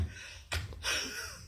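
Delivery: soft, voiceless villain's laugh; quiet demonic snigger, acted; demonic chuckle. Shown as a demonstration. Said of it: "something called demonic smile".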